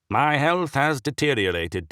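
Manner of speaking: heavy, rasping ailing bishop; sickly bishop voice. A narrator's reading. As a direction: speak like a sick old prelate. Narrator voices sick bishop.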